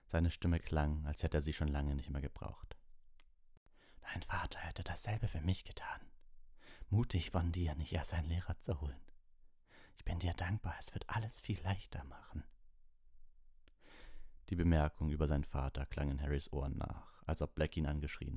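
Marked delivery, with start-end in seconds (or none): 4.0-12.4 rasping whisper; a rusty unused voice; hoarse. Acted. Sirius speaking hoarsely to Harry.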